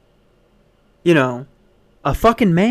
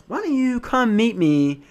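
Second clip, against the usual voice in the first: mocking douchey guy. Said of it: "he's talking like this".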